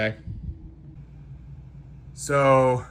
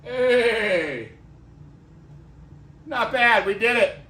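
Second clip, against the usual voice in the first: higher, bright burst of triumph; excited relief; 7 semitones higher, slower than usual. Real, not acted. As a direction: celebrate the small win. Triumph after moving the table.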